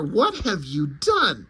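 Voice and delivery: slow mock yell, swooping in pitch. Superman yells at the wizard, mild mock yell. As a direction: draw out an outraged demand, pitch jumping. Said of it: "Superman yells even louder".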